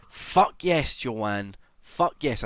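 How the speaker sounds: hyped-up celebration; excited cheer. Real, not acted. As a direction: cheer for her, loud and up. Cheering a viewer's news.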